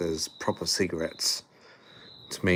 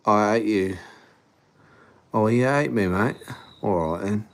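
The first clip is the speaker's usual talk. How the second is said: playful mock British accent; Pommy accent; 2 semitones higher than usual. Shown as a demonstration. Streamer showing off the accent in a pretend exchange, mock British. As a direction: put on a bit of a Pommy accent. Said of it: "say it in a bit of a Pommy accent".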